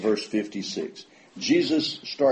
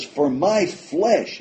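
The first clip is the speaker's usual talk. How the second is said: "my flesh" slow and high, "my" leaned on; "For my flesh" pressed hard, slow and higher; stress on my flesh; 6 semitones higher, 4 dB louder, much slower than usual. Acted. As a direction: lean on "my" and stretch "flesh" slowly. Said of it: "he switched from bread and he's talking about meat".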